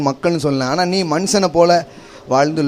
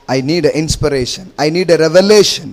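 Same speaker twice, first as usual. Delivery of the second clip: slow emphatic prayer; much slower than usual. Shown as a demonstration. Preacher models a prayer to God.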